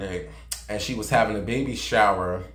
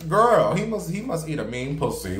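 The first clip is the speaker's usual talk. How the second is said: imitating gossiping fans; 3 semitones higher than usual. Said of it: "none of her fans like".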